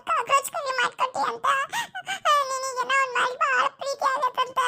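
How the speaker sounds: Cockroach said through mild laughing sobs; half-crying complaint. Acted. Daughter whining to her mother about the curry, mild sobbing. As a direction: whimper it out like a sulking child. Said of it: "first ಅಳದ್ ನಿಲ್ಸಿ ಮಾತಾಡು".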